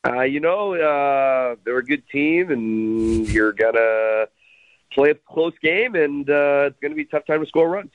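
lightly imitated laid-back team skipper with drawn-out words; mild manager impersonation, stretching words and fillers; Craig Counsell. Radio guest answers hosts as the team's skipper, in a mild impersonation. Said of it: "my best Craig Counsell impersonation".

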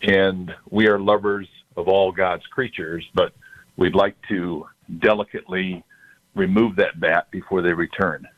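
caller heard through a speakerphone; phone-line voice from a speaker. Real, not acted. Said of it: "I've got you on speaker".

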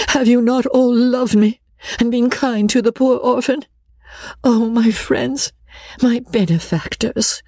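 high-pitched, tearful governess pleading; emotional, imploring high voice; pathetic appeal. A narrator's reading. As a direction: protest with a full heart, pitched high. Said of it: "so pathetically that her audience were melted".

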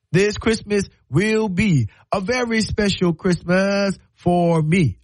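slow, deliberate announcement; emphatic declaration. Acted. Grown child warning mama about Christmas, slow and emphatic. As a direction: spell it out slowly and firmly. Acted warning to his mother.

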